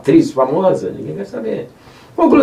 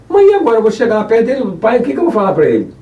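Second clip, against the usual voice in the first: fast, high worried question; Jacó asks his mother what to tell his father, fast and worried; anxious son; 7 semitones higher, faster than usual. Acted. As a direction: rush the question out, fretting about being caught.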